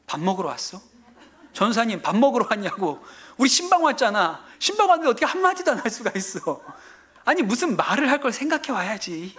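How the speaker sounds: incredulous mock telling-off, pitch rising as it builds; retold scolding. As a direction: replay reproaching a junior colleague. Preacher replays scolding the junior minister.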